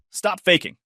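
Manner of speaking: high-pitched accusing order. A narrator's reading. Sister accuses fallen brother.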